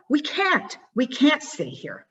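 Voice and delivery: panicked thought. Retold or imitated. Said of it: "And I thought".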